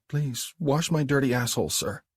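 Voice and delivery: high, hesitant submissive echo; Abby's submissive repeat. Acted. Abby repeats Mark's demand back to him, submissive. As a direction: repeat his words, ashamed but obedient. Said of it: "repeats his words".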